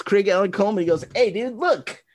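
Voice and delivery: amused cop. Retold or imitated.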